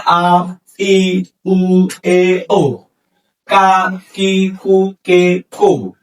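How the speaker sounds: "আ" "ই" "উ" each kana syllable spoken separately and evenly, with pauses between rows; careful Japanese kana pronunciation, one syllable at a time, "কা" "কি" "কু" clearly apart; kana readout. Shown as a demonstration. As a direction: read the chart aloud syllable by syllable for learners to copy. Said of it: "একটু উচ্চারণ করে দেখাচ্ছি".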